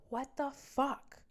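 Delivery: high mock yell, drawn out slowly; retold scream. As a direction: mimic him snapping at the kids, slow and high. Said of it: "he screamed at them".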